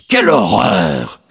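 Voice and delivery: slow, low parental disapproval; horrified parents. A narrator's reading. Parents reacting to the vacant lot, horrified. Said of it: "disaient mes parents".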